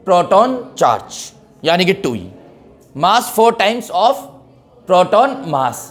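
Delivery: very slow, word by word, for writing down; slow note dictation. Acted. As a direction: dictate each word slowly so students can copy it. Dictates notes to the class.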